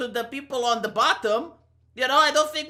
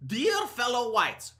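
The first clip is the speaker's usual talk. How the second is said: mock formal address; slower than usual. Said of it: "who talks like this?".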